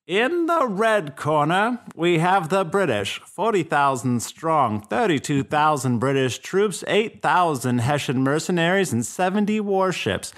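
high, slow, booming fight-night announcer; boxing ring announcer. Pretend. Announcing the fighters to the crowd, ring announcer style. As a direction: hype the red corner like a ring announcer. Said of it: "What was that voice that you were just doing?".

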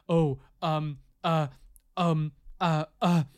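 halting mock embarrassment, full of gaps; awkward. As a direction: imitate someone stopped short and floundering. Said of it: "It was so awkward".

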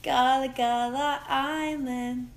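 loud, excited recall. Real, not acted. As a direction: shout it out gleefully.

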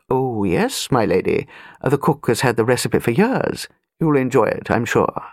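put-on a courtly old butler, smooth and polite. Butler voiced.

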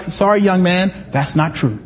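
put-on a professor putting a young student in his place; stern professor. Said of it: "And it's like".

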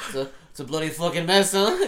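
put-on a light, high, loud English accent; mock it in a little English accent. Quoting the Joker mocking, in a light English accent. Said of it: "mocked with, like, a little English accent".

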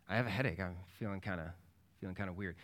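low, soft, hesitant admission; subdued and halting, lightly acted; retold unwell brother. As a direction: imitate someone quietly owning up to feeling off. Sick brother admits feeling weird.

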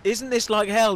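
Irish accent impression, high and loud; imitated Irish accent. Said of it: "Can you do it in the accent?".

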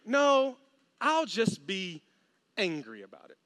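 mock grumpy brother; sulky refusal. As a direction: drop low and sulk.

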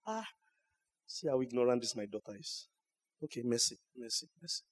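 low, hushed mock Satan taunting; a softly voiced devil jeering at the prayer. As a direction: sneer it like the devil listening in. Mocking Satan overhearing a prayer.

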